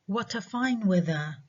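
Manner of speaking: "What a fine weather", rising on "weather" then dropping; falling exclamation. Shown as a demonstration. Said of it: "have falling intonation".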